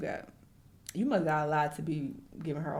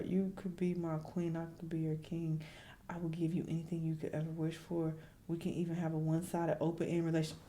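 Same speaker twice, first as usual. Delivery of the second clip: mock lovesick; 7 dB quieter than usual. Mocking the fan's text to Ruby, softly swooning. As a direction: croon it like a lovesick fan.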